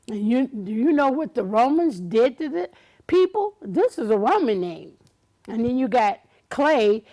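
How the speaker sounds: mock-indignant lecture; lecturing scold. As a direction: tear his name apart like a stern little girl. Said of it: "I looked at his name and I said".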